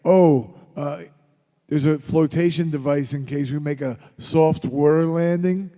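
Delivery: loud mock airline announcement; mock flight attendant. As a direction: parody the safety announcement over the intercom. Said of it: "like in the airplane when they tell you".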